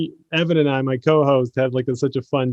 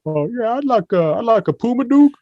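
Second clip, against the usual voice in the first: higher, eager voice; Barkley in pet store; 8 semitones higher than usual. Retold or imitated. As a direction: ask for it brightly like a clueless customer. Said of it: "Charles Barkley ... going like".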